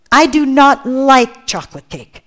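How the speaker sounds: each word set down slowly and firmly, "not" leaned on; firm declaration. Real, not acted. Preacher firmly confessing to the church she dislikes cake. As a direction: say it like a bold confession. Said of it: "There you go, I said it".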